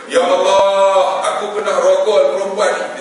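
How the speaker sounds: drawn-out cry to God, loud; loud confession prayer. Acted. Acts out man's loud confession prayer.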